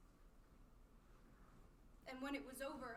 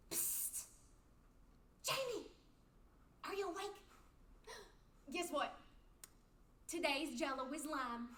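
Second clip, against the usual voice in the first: put-on hushed excited kid. Child whispering to hospital friend.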